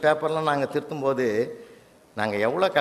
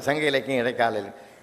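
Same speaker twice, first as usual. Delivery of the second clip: softer echo of சங்க இலக்கியம் fading on இடைக்கால இலக்கியம்; 4 semitones lower, 4 dB quieter than usual. Shown as a demonstration. The mic echoing the judge's opening words, fading softly. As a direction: play the hall's echo, fading. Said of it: "அதே repeat ஆகுது".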